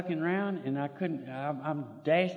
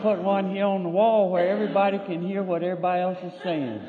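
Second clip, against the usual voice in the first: chuckling as he speaks, a bit faster; half-laughing mock decree; laughing through it; 4 semitones higher than usual. Real, not acted. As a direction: lay down the law while laughing at it. Laughing while retelling his decree.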